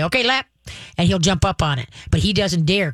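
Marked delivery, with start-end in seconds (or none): 0.0-0.5 cue word to dog. Shown as a demonstration. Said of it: "I just tap my lap and say".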